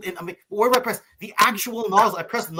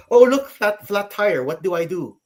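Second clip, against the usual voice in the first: mock helpless self; 4 semitones higher, 5 dB louder, slower than usual. Ken mocks his own helplessness.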